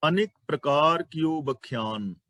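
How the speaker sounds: slow, careful line with ਪ੍ਰਕਾਰ as "pra-kaar", ਬਖਿਆਨ as "ba-khyaan"; measured reading, joining pr in ਪ੍ਰਕਾਰ and khy in ਬਖਿਆਨ; model scripture reading. Shown as a demonstration. Teacher demonstrates the verse, slowly saying "pra-kaar" in ਪ੍ਰਕਾਰ, "ba-khyaan" in ਬਖਿਆਨ. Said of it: "ਐਵੇਂ ਬੋਲਾਂਗੇ".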